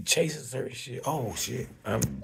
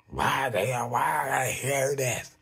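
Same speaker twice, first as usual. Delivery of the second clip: agitated; 3 semitones higher, 5 dB louder than usual. Acted. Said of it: "you're agitated".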